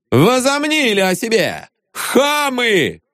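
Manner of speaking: high huffy bluster; swaggering indignation. A narrator's reading. Viktor Mikhailovich keeps showing off to the crowd. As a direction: puff yourself up. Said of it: "хорохорился".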